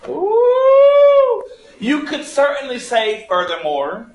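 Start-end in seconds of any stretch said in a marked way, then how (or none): 0.1-1.4 excited ooh. Real, not acted. Teacher about to teach better way.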